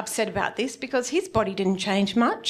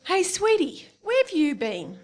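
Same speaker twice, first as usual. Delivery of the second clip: barfly greeting; 6 semitones higher than usual. Retold or imitated. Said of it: "He said".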